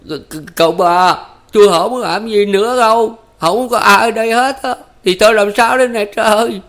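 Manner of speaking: high, loud, whimpering plea near tears; tearful wail. A narrator's reading. Ba Lành begging the fleeing man to come back, wailing. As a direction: beg with a crumpling voice. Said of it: "tuyệt vọng mếu máo gọi".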